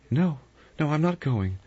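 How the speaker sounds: high-pitched, anxious refusal; alarmed refusal. Acted. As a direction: balk at going, pitched right up. Vera refuses to go.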